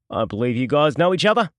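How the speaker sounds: a touch of sly mockery in the villain's voice; lightly voiced gloating thug; smug thug. A narrator's reading. Villain Darren mocking his captives, a lightly sly voice.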